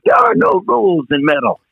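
a hint of a German accent. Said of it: "he's got this German accent".

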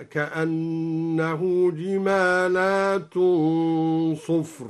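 slow recitation of جمالات; plural jimalat. Shown as a demonstration. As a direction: draw out جمالات slowly. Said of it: "بالجمع هكذا". (ترتيل جمالات بالجمع ببطء)

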